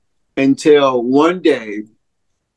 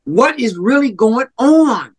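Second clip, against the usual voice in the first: mild retold scream; 8 semitones higher than usual. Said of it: "and I scream out".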